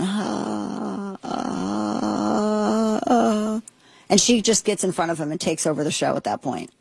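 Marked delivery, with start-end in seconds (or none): 0.0-3.6 imitating halting stammer. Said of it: "And he's going".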